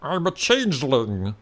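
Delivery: slow, rumbling changeling voice; a lightly voiced creature rumbling its name. Changeling introduces itself to the hero, rumbling. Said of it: "answer back in a rumbling voice".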